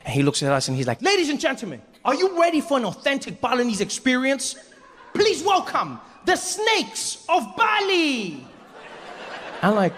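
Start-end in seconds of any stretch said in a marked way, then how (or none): 1.0-8.5 high, grand ringmaster introduction; show announcer. Acted. Host presents snake show to tourists, grand announcer. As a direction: stretch out the big reveal slowly at the end.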